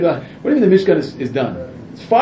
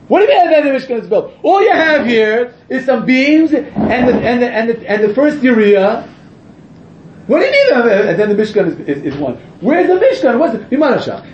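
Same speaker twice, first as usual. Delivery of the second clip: incredulous; 5 semitones higher than usual. Real, not acted. Mock incredulous questions about Mishkan.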